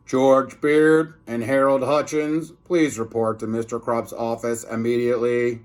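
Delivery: mock intercom voice; intercom announcement. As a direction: call them over the school intercom.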